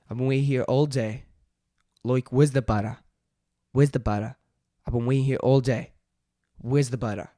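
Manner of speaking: loud mock-impatient Aussie complaint; Australian accent. Shown as a demonstration. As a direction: call it out in broad Australian. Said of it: "let's try Australian".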